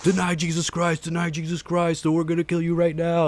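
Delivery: mild, menacing, threatening half-yell. Retelling how armed men yelled at a kidnapped youth group: imitating men yelling a threat. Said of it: "They're all yelling".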